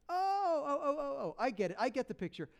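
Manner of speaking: mock dawning realization with attitude, starting high; string out the "oh"s sarcastically, then settle; copping an attitude. Elisha to those begging help, with attitude. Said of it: "He cops an attitude".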